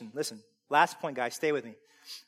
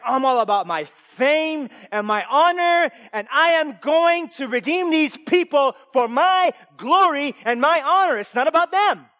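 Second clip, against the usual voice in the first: high, loud booming declaration; voicing God; 12 semitones higher, 11 dB louder than usual. Preacher voicing God claiming his glory, loud proclamation. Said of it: "God's like".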